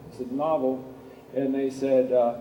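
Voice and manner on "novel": "Novel" pronounced NAH-vul, falling away; first-syllable stress. Retold or imitated. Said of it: "He pronounced it Novel".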